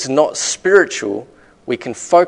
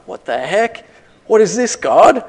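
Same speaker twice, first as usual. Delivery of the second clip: mock indignant shock; 9 semitones higher, 5 dB louder than usual. Believer facing a Goliath, mock outraged cry to God. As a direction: voice jumps high in exasperated surprise. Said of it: "we're like".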